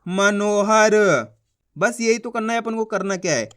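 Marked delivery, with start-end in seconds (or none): 0.1-0.9 मनोहर stretched syllable by syllable; blended word reading. Shown as a demonstration. Teacher demonstrating the finished word, slow blending. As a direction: join it up slowly as म-नो-ह-र. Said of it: "तो मिलके बन जाएगा".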